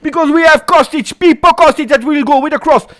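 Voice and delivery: high, loud, rising commentary shout; live play-by-play. Real, not acted. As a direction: call the attack as it builds.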